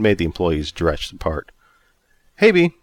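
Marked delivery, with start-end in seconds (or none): 2.4-2.7 cheerful greeting. A narrator's reading. Anthony greets Bea.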